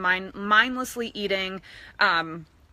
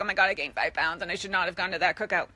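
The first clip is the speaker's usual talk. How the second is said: mock dismay; 3 semitones lower, faster than usual. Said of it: "stand on the scale and be like".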